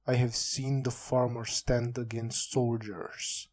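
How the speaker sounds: measured, understated heroic speech; a hint of solemn hero, kept even; lightly voiced hero. Hero vowing to defend the good, lightly voiced. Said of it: "For a hero".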